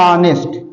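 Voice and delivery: ऑनेस्ट begun on the vowel; silent-h pronunciation. Shown as a demonstration. Teacher showing how honest is pronounced, silent-h pronunciation. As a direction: say ऑनेस्ट with no h sound. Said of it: "प्रोनाउंसिएट करेंगे आप हिंदी में तो हो जाएगा".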